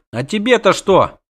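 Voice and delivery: sniffly retort. A narrator's reading. Runaway girl to the witcher, sniffly retort. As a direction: snap back through a runny nose. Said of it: "хлюпнула она носом".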